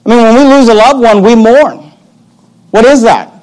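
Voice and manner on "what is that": ordinary delivery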